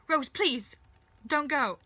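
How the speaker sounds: loud, high begging cry; desperate plea. Acted. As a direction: call out, begging someone to stay. Shouted plea to departing Rose.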